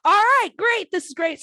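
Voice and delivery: loud, high burst of mock delight; imitating her own overjoyed reaction; mock excited. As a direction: gush over it in a bright, loud voice. Retold excited reaction to news.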